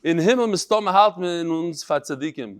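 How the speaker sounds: put-on Litvish Yiddish reading accent. Rabbi reading a martyr's last words to class, Litvish Yiddish. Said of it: "in the Litvish Yiddish".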